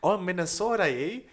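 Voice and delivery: loud, high mock Minnesota accent. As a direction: do a hammed-up Minnesotan. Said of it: "the Minnesota".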